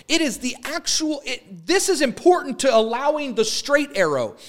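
high-pitched, insistent sermon climax; urgent exhortation, pitched well up; impassioned preaching. Real, not acted.

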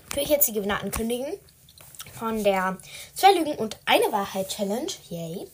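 talking around a lollipop; mouth full. Real, not acted. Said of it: "Ich lutsche grad einen Lolli".

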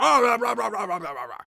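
hammed-up chamber hubbub, tailing off; cheering British MPs. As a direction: mimic a braying parliament crowd. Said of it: "it's like a South Park episode".

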